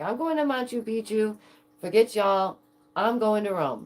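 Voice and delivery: playfully imitated big travel declarations; emphatic past self. Streamer acting out her old travel dreams, emphatic. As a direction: announce it like a hammed-up younger self. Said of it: "this is me".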